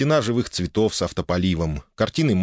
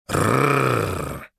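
dragon growl. A narrator's reading. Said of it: "ответил мне рыком".

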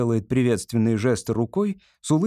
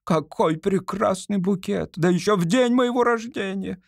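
delighted actress; 7 semitones higher than usual. Acted. Actress thanking an imagined public for flowers, delighted. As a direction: gush over the bouquet.

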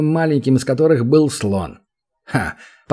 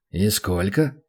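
softer, sweetly coaxing question; gentle; 4 semitones lower, 5 dB quieter, slower than usual. A narrator's reading. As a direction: ask kindly, baiting. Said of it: "ласково спросил демон". (демон ласково спрашивает гоблина, тише)

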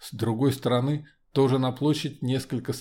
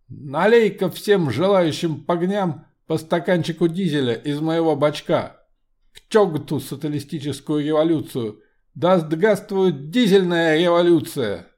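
loud commanding metallic voice; steely voice; 5 semitones higher, 6 dB louder than usual. Acted. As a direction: shout down the crowd like an iron automaton. Homunculus rallies the crowd.

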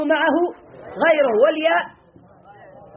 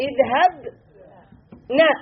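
stretched-out model word; much slower than usual. Shown as a demonstration. Teacher demonstrating a word form.

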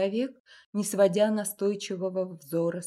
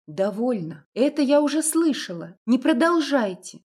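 sharp refusal; 5 semitones higher, 7 dB louder than usual. A narrator's reading. Masha cuts him off sharply.

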